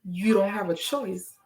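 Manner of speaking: measured spoken-word cadence; poem recitation. Acted. Poet urging listeners to ask God, measured verse. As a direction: recite in short phrases, leaning on the rhymes.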